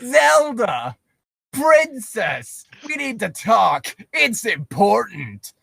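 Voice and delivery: slow, mock-stern address. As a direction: press her sternly, drawing out the words. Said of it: "Link said sternly".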